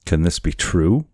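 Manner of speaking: understated astonished plea; mild cry. Acted. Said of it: "Kiawe cried".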